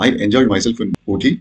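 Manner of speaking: very slow, word by word; teacher reading a test option to students, very slowly; slow example reading. Shown as a demonstration. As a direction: read the option out carefully, slowly. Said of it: "ఏది correct అని అంటే".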